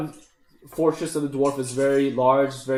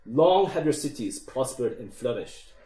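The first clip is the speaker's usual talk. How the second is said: lightly voiced dwarf king with a bad Scottish accent; a hint of broken Scottish, slightly lowered; deep booming king; 2 semitones lower than usual. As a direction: give a measured speech as a dwarf king rallying recruits. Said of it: "in a deep, booming voice".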